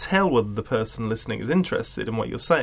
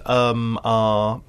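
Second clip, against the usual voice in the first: imitated hesitation noises; hesitant; 4 semitones lower, 3 dB louder than usual. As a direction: demonstrate drawn, unsure filler sounds. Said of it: "hesitant kind of noises".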